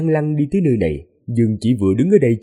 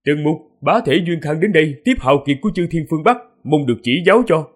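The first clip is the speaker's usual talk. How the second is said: raised voice; 5 semitones higher than usual. Acted. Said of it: "cất cao giọng mà nói".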